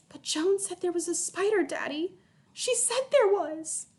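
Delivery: put-on pleading girl's voice; child insisting. A narrator's reading. Girl protests to her daddy, high and pleading.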